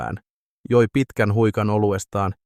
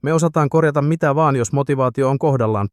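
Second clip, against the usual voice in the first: higher, louder confident promise; assuring; 5 semitones higher, 4 dB louder than usual. Acted. Peltonen assuring Sami about the Datsun, boastful. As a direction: sell it like a sure thing. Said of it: "Peltonen vakuutti".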